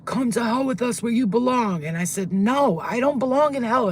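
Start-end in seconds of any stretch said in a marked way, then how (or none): 0.1-1.8 mildly raised, menacing summons; mock scary scream. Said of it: "So he screams out". 2.3-3.9 loud, high, defiant retort; screamed refusal. Retold or imitated. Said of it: "And I'm screaming at him".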